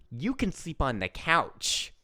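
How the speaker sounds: slow, lightly imitated eviction order; sassy child. Four-year-old sends the adult to the couch, imitated sass. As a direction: draw it out like a bossy little kid. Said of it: "Stephanie has so much sass".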